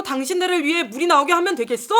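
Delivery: understated acted indignation; angry Moses. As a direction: quote the fed-up leader with a touch of anger. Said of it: "모세가 화가 난 채로".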